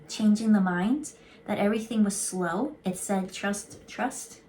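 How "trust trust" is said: whispered. Shown as a demonstration. Reading card text aloud.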